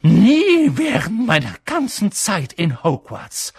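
high, loud outraged professor; entsetzt. A narrator's reading. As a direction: burst out aghast, first word stretched. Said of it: "fast sprachlos vor Entsetzen". (entsetzte, laute Lehrerinnenstimme)

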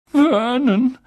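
high, quavering call; trembling voice. A narrator's reading. Frightened aunt addresses her husband, voice trembling. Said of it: "mit zitternder Stimme".

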